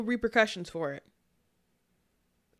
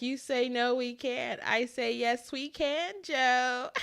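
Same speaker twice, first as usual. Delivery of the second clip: lightly mocking, higher-pitched teasing quote; Kamala Harris; 5 semitones higher, slower than usual. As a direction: taunt lightly, pitch climbing toward the end. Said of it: "she starts laughing at the man".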